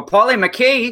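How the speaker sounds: hammed-up Scottish lilt; bad Scottish accent. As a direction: say the name in a badly faked Scottish accent. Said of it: "That's bad Scottish accent".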